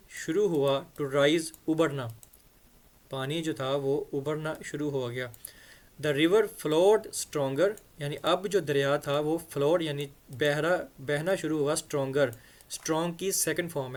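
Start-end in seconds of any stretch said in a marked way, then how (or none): 6.0-7.7 very slow, each word laid out for students; slow reading aloud. Shown as a demonstration. Teacher reads the story line slowly to the class. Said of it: "reads the text slowly".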